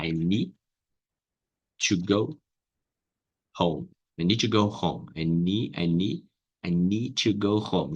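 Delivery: "I need to go home" split into separate words; careful step-by-step version; slow broken-up demo. Shown as a demonstration. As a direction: take it apart slowly, word by word. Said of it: "vai ficar assim".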